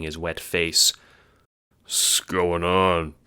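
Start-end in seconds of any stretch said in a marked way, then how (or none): 1.9-3.1 slow, sleepy mumble; half-awake murmur; groggy mumble. Acted. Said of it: "Dave mumbles".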